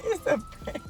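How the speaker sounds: squealed prank reveal. Real, not acted.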